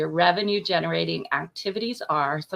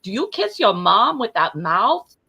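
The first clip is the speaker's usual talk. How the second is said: hammed-up New York accent; bad New York accent; 3 semitones higher, 3 dB louder than usual. Shown as a demonstration. Guest trying out the saying, bad New York accent. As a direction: put on a clumsy New York voice. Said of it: "here's my bad New York accent".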